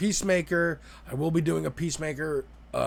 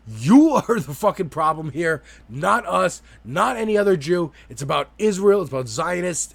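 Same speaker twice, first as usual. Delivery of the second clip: louder, raised mock tirade; imitating screaming; 4 semitones higher, 5 dB louder than usual. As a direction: retell her furious rant at the prime minister. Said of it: "starts screaming at Netanyahu".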